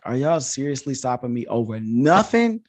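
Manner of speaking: exasperated disbelief climbing high and slowing down; annoyed and irritated. Retold or imitated. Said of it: "annoyed and irritated".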